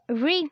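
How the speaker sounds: re sounded alone with a long ee; pause, then sound out re as "ree"; isolated syllable. Shown as a demonstration. Teacher shows what R Y produces, re isolated. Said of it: "R Y produces sound re".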